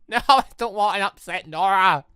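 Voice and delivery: normal talking voice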